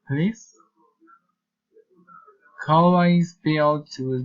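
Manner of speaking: "please" lifts up each time; rising request intonation. Shown as a demonstration. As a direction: set "please" apart and raise it. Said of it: "reason, intonation".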